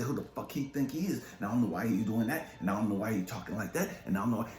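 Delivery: fast, mocking gossip voice; mocking the critics. Critics gossiping about the speaker, fast mocking tone. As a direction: rattle it off like petty critics. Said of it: "These motherfuckers say".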